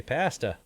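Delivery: "pasta" with a short flat a, as in cat; regional "pasta". Retold or imitated. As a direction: say "pasta" with the a of "hat". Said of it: "they say".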